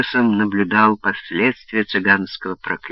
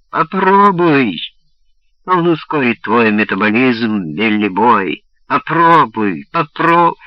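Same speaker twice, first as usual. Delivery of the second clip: squealing rat voice; 2 semitones higher, 4 dB louder than usual. Acted. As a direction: shriek like a rat in a trap. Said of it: "голосом крысы, угодившей в капкан".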